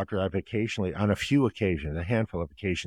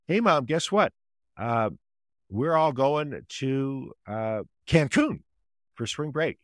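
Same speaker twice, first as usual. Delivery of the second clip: lightly voiced eager teen, higher pitch; excited teen daughter; 6 semitones higher, slower than usual. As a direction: mimic a teen bursting with news.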